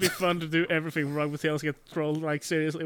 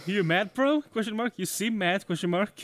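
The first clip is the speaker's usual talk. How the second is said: deadpan punctuation reading; 4 semitones higher than usual. Acted.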